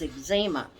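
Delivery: "eczema" as eg-ZEE-muh, long ee; old-time pronunciation. Shown as a demonstration. Vlogger quoting the doctors of her childhood, eg-ZEE-muh for "eczema". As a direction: put the weight on ZEE in "eczema". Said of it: "the way the doctors pronounced it".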